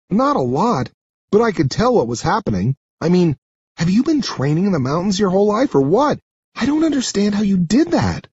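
high, quick, astonished character voice; high-pitched incredulous girl; amazed girl. Acted. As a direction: gush in disbelief at the rescuer. Sarah, amazed, in dialogue.

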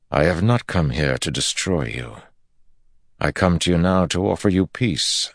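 a hint of a solemn ruler; measured regal speech; commanding lord. Rand addresses the empress.

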